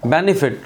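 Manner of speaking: बेनिफिट with weight on BEN, light final t; unstressed final T. Shown as a demonstration. Teacher showing an unstressed T, बेनिफिट as BEN-i-fit. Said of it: "टी पे stress नहीं है".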